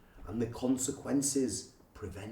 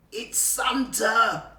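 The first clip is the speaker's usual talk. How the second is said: higher, slow joyful cry of discovery; excited cry; 8 semitones higher, slower than usual. Acted. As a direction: shout with delight at finding him. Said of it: "cried out Joe".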